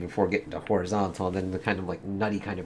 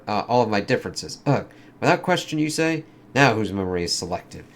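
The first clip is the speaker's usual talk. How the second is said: lightly acted comic dialogue, in character; comic characters voiced; 3 semitones higher, 3 dB louder than usual. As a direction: read it like a dramatic comic scene. Reads angels' exchange.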